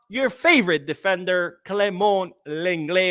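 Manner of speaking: sarcastic. Real, not acted. Host teasing viewers about their favorite defender, sarcastic. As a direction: announce him with sarcastic relish. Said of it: "I say that sarcastically".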